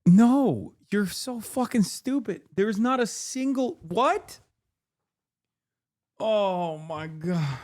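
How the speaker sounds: high-pitched disbelieving shriek; shrieking jackpot winner. Acted. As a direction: squeal in stunned disbelief. Shrieking reaction meme.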